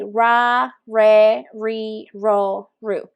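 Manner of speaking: "ra, re, ri, ro, ru" with an English-like R; alternative unrolled R. Shown as a demonstration. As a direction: say each syllable with no roll on the R. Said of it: "alternative sound will be".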